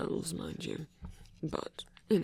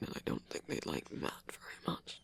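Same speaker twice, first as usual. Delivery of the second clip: much lower, much softer conspiratorial whisper; whispered aside; 12 semitones lower, 9 dB quieter than usual. Acted. Speaker jokes about offending mermaids, in a low whisper. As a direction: lean in and breathe the joke.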